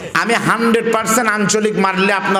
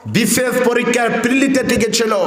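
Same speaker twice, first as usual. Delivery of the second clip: raised oration; 4 semitones higher than usual. Acted. A different raised speech.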